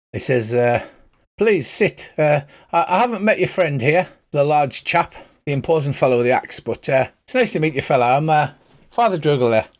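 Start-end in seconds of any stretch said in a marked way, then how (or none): 1.4-9.7 lightly put-on Irish lilt, pitched up; a friendly Irish priest welcoming strangers; Irish accent. Father Dougal welcomes the axe-carrying fighter, light Irish accent. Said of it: "pretend Colin Farrell accent".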